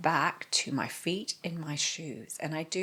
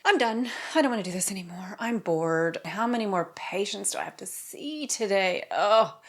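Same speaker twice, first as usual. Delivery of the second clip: fed-up inner thought; 4 semitones higher than usual. Retold or imitated. Doctor to herself between patients, mildly exasperated. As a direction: act out dreading the rest of the workday. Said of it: "this sense of dread".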